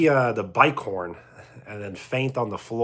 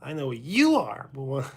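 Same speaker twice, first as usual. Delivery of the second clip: Pee Wee catchphrase. Acted.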